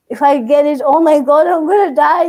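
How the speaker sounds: replaying a worried spiral, voice climbing; scared. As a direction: build to a mock-panicked outburst. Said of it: "I started getting so scared".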